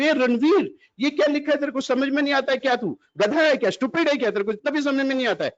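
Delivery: mock-angry dad scolding the child; father scolding. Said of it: "पापा ने notebook देखी".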